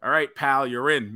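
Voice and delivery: pal and in landed breezy and sure; cocky text read aloud. Retold or imitated. Reading the partner's text to the co-host, breezy and smug. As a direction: read Bryan's text like a smug done deal. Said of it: "I get a text message that says".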